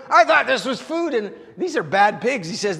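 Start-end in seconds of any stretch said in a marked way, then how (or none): 0.1-1.1 pig's reply. Retold or imitated. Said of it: "the pig's going".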